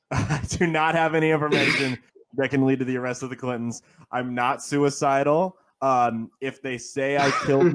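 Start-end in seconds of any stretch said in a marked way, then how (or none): 0.0-3.8 laughing. Real, not acted. Mock denial while laughing.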